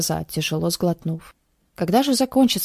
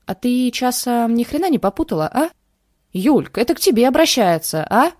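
raised angry man's voice; 6 semitones higher, 5 dB louder than usual. Acted. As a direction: threaten her, getting louder. Angry man confronts girl.

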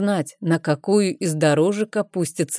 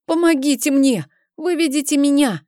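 begging for help; 8 semitones higher than usual. A narrator's reading. Trapped boy begs help.

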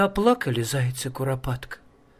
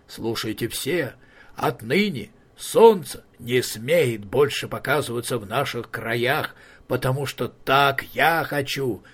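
troll king voice; 2 semitones lower than usual. Acted. Troll king Hisi speaking.

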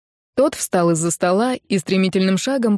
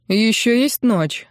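thoughtful; 3 semitones higher, slower than usual. Acted. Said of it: "отозвался Арин задумчиво".

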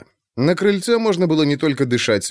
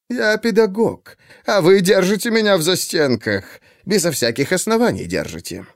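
irritated; 7 semitones higher than usual. A narrator's reading. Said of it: "раздражённо сказал Чикатило".

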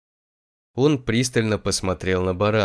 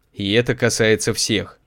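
louder. Acted. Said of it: "более громко добавил он для всех остальных".

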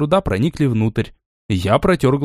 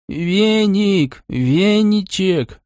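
high, drawn-out yell of the cat's name; a cat bawling out his friend's name after the crash; 7 semitones higher, much slower than usual. Acted. The cat, after the crash, bawls the hero's name. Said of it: "заорал он".

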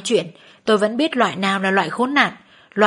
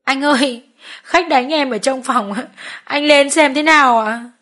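higher, tearful plea for help; mild sniffling distress call; crying on the phone; 4 semitones higher than usual. Acted. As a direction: beg your boss to come, near tears. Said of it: "gọi điện về cho tôi khóc".

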